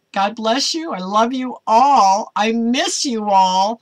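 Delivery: slow, sincere farewell; mean every word of it; heartfelt. Real, not acted. Pastor telling her viewers she loves them, sincere.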